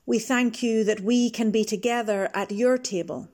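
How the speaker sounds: steady, earnest prayer voice; leading prayer. Acted. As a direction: pray aloud for the congregation, unhurried. Leads opening prayer.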